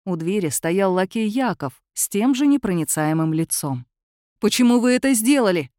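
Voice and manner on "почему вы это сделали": loud, higher outraged cry; shout. A narrator's reading. Georgy screams at the master for ending the séance, loud. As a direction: hurl the question at him in fury. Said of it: "закричал Георгий Александрович".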